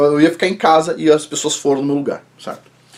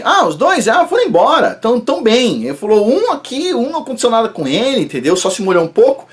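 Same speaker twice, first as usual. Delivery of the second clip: imitating the doctor; 5 semitones higher than usual. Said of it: "E o médico falou assim".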